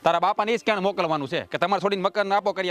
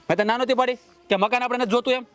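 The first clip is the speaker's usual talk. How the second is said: shouting; 5 semitones higher than usual. Acted. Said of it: "પણ રાડું હું નાખો છો?".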